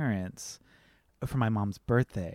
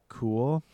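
COOL drawn out with a rising end, as if in air quotes; air-quoted emphasis; 3 dB quieter than usual. Real, not acted. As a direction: put COOL in audible italics. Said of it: "The cool emphasis was in italics".

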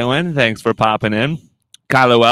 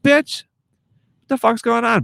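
mock outrage; 11 semitones higher than usual. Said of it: "And I'm like".

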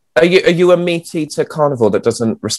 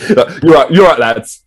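rowdy jeering pub banter. Shown as a demonstration. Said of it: "Just me being bilingual".

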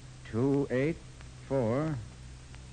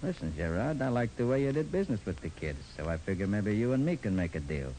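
gangster voice. Acted. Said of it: "in my best gangster voice".

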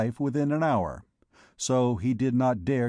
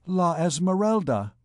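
mild astonishment, higher pitch; stupefied; 5 semitones higher than usual. A narrator's reading. Gringoire hearing the magic word, stupefied. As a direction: say the name in dazed wonder. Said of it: "stupefied in the midst of his emotions".

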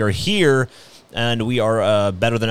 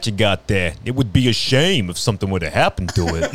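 smiling threat. Acted. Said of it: "That's great. That should be your Johnny Knobs character".

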